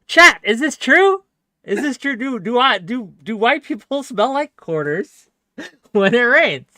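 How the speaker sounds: cracking up while asking if it's true; incredulous laughing. Real, not acted. Streamer asking chat, laughing in disbelief.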